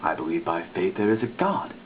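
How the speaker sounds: usual speaking voice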